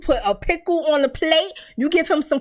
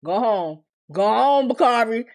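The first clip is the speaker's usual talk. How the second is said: Victor calling it off; 5 semitones lower than usual. Retold or imitated. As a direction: wave him off calmly and low. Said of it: "And Victor like".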